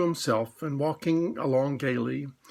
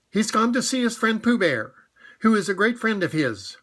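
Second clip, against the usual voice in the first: disguised rabbit; 6 semitones higher, 3 dB louder than usual. Acted.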